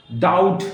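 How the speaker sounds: डाउट with no B before the T; silent B. Shown as a demonstration. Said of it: "बी नहीं बोला जाएगा".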